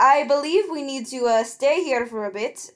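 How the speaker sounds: put-on southern character voice; lightly played southern accent. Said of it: "I can only do a s-, a southern accent".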